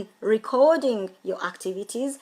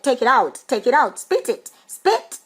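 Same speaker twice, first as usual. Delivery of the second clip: put-on loud, rising panicked yell at a child; alarmed parent shout; 3 semitones higher, 6 dB louder than usual. Parent yelling at a choking child, loud and panicked. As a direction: shout at the kid to spit it out, climbing higher.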